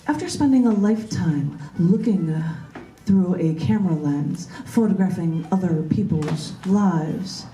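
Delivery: slow, measured poetry reading; poem reading. Acted. Poet reading her own poem to the group, slow and measured. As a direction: let each image land with pauses.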